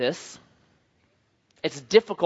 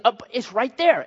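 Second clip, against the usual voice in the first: higher, insistent imitated child; a hint of a two-year-old's insistence; toddler son; 5 semitones higher than usual. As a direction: protest lightly like a small boy. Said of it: "This is how he talks to me now".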